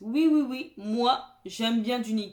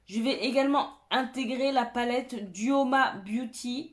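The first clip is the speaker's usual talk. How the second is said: half robot voice, even and mechanical. Real, not acted. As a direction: say it like a robot by accident. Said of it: "On dirait que je parle comme un robot".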